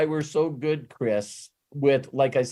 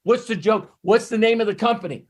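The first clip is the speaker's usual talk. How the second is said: voicing a prospect; 5 semitones higher than usual. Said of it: "someone can ask us".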